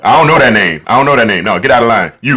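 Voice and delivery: gruff club bouncer checking the list; a door bouncer turning you away. Pretend. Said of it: "I'ma put on the bouncer voice".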